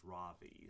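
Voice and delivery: "Ravi", the written W sounded as an English V; pronounced with a V. Shown as a demonstration. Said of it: "W is pronounced like a V".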